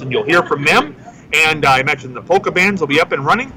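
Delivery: steady on-air announcing, names set apart; radio host intro. Real, not acted. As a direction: welcome listeners to the live festival broadcast. Opens the festival broadcast.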